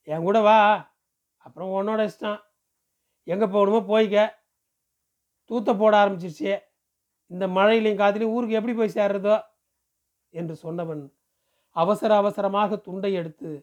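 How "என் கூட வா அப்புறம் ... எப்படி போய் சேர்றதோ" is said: mildly impatient villager; lightly voiced village man, exasperated. Man leaves the choice to her as rain starts, mildly exasperated. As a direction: give her a last push, lightly in character.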